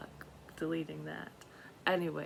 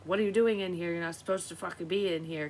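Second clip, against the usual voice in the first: indignant shout; 6 dB louder than usual. Retold or imitated. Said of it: "she was like".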